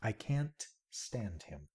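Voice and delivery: soft and slow; quiet. Shown as a demonstration. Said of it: "No, no, no".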